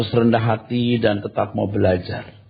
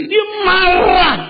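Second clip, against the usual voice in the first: shout; 4 dB louder, much slower than usual. Real, not acted. Preacher shouts for emphasis.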